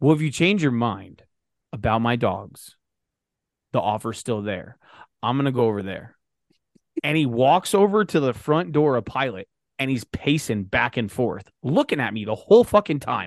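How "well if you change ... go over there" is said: dead serious, grave tone. Retelling a stranger's offer after he turned serious: imitating someone going dead serious. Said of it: "He went dead serious".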